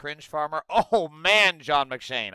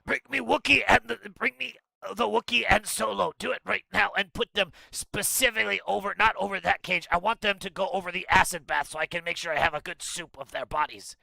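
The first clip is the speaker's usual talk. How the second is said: Jabba the Hutt voice; 3 semitones higher, faster than usual. Retold or imitated. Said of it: "let's see if I can".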